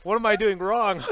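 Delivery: high, loud whiny complaint; mock whining about losing; mock frustrated whine. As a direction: pitch it up like a sore loser. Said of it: "Just like".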